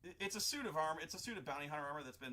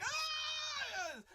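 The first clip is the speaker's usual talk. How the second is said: high-pitched burning scream; horrible shriek; 5 dB louder than usual. Retold or imitated. Burning Sith Lord fleeing to the temple, high shriek. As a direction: shriek like you are on fire. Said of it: "horrible high-pitched shrieking".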